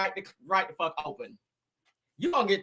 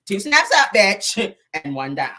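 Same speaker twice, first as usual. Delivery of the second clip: sassy snap; 5 dB louder, slower than usual. Pretend. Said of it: "That's gonna be a certain rapper ass".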